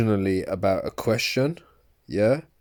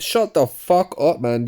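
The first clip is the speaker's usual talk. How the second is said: angry outburst; 5 semitones higher, 3 dB louder than usual. Real, not acted. Shouting at the video clip.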